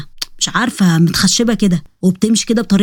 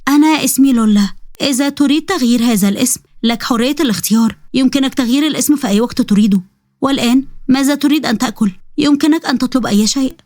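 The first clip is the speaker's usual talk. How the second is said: robot bride Lola; 4 semitones higher than usual. Acted. Robot Lola speaks formally.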